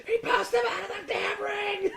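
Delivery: high-pitched imitation of a frantic announcer; Cody going nuts. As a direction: shout it like a wrestling commentator losing it. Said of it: "that's all you hear".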